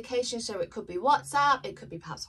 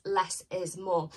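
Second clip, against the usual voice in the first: slow, deliberate Less is more; slowly weighted Less is more; slow spirit message; 2 semitones lower, slower than usual. Pretend. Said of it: "they are saying the words".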